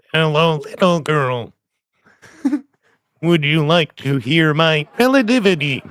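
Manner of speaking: lightly robotic text-to-speech voice; flat synthesized speech voice; Stephen Hawking voice. Pretend. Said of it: "He's a bit more nasal".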